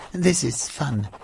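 put-on high, cheerful girl; young girl voice. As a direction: agree brightly. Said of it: "said Zoe".

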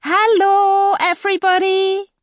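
high, loud joyful greeting; cried out. A narrator's reading. Wilma to everybody on arriving home, loud joyful cry. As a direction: call it out happily to the whole family. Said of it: "Wilma cried".

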